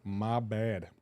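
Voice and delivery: soft, sheepish aside to chat; quiet apology. Real, not acted. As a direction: drop the voice for a sheepish sorry. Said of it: "quiet apology".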